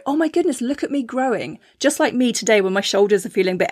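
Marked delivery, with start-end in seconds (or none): 0.1-1.6 mock proud cheer. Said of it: "give yourself a high five and go".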